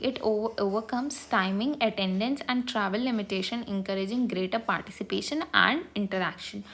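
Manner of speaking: reading a definition very slowly, word by word; slow dictation reading. Acted. Teacher slowly dictating a textbook definition to students. Reads English definition aloud.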